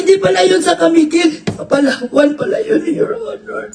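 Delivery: whiny half-sob, a hammed-up tearful witness pleading; fake-weep through the excuses like a witness caught lying; mock crying testimony. Mocking the crying witness before the judge, hammed-up sobbing. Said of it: "Grabe, iyak niya kanina".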